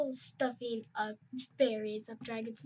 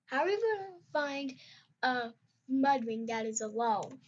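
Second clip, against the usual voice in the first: higher, worried question; very concerned; 5 semitones higher than usual. Acted. Barry worried about finding a lone Mudwing, concerned and higher. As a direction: fret about the search, voice lifting high. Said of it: "Barry asked, very concerned".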